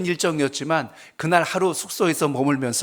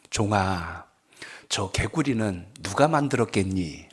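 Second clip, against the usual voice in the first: voice of the Spirit. Retold or imitated. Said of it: "이런 성령의 음성".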